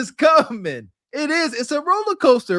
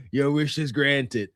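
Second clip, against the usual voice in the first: deep, slow granting voice; grandly granting a wish; 8 semitones lower, 3 dB quieter than usual. Acted. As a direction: grant it like a mighty dragon. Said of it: "dragon answers the wish".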